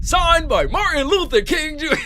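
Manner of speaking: high, grandiose speechmaker's sign-off; mock-solemn sign-off.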